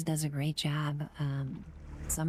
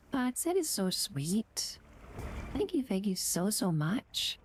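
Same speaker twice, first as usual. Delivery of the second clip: higher, emotional gushing thanks; touched and excited, higher voice; overwhelmed thanks; 4 semitones higher than usual. Real, not acted. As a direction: thank him as if near happy tears. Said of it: "I'm gonna cry".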